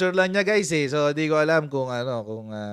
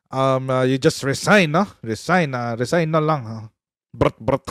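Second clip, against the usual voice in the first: imitating Baste; 4 semitones lower, slower than usual. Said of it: "mahirap gayahin si Baste".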